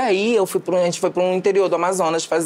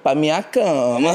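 cantada lenta; 3 semitones lower, slower than usual. Retold or imitated. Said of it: "Ele falou".

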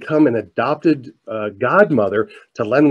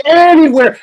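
very high, loud imitation of children yelling; kids shouting; 8 dB louder than usual. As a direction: yell it as the whole excited class. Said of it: "the kids are shouting".

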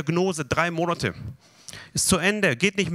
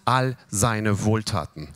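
slow recitation; slower than usual. Shown as a demonstration. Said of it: "Vers zwei".

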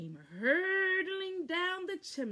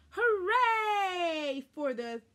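higher, louder, slow cheer; 9 semitones higher, 7 dB louder, slower than usual. A narrator's reading. Cheering ending.

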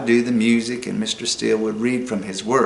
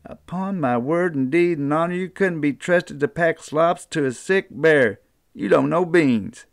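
mother scolding; 5 semitones higher than usual. Acted. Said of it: "She hooted to Jack".

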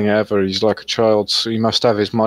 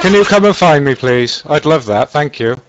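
sarcastic; 4 semitones higher, 3 dB louder than usual. Real, not acted. Mocking reply to a threat.

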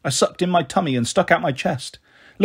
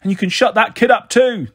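raised, high-pitched complaint; angry shout; 6 semitones higher, 3 dB louder than usual. A narrator's reading. Neighbour fed up with a crying child, angry shout. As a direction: shout crossly through the wall. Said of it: "the voice shouted".

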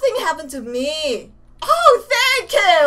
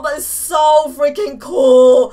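excited shout; 5 semitones lower, 7 dB louder, slower than usual. Real, not acted. Excited over new sword.

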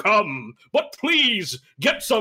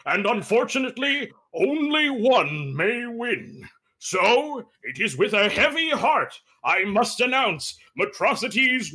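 pageant host. Acted. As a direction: draw out the big reveal. Judge announces winner.

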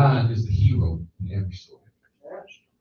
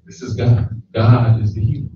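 louder, ringing preacher's call; emphatic proclamation; 7 dB louder than usual. Real, not acted. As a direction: declare it from the pulpit. Climactic sermon proclamation.

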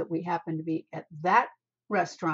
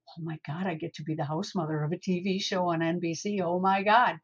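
mock ego; 5 dB louder than usual. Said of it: "I understand that ego of".

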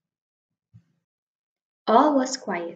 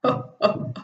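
hearty laugh. Acted. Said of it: "bursting with laughter".

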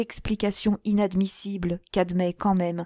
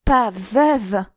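sharp, louder mock outrage; Sarah repeating his words, stridently; strident echo; 2 semitones higher, 6 dB louder than usual. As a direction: fling the words back at him. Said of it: "d'une voix stridente".

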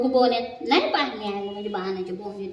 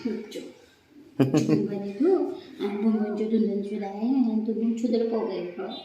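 put-on baby talk; 3 semitones lower than usual. Mother coos at sulking pet.

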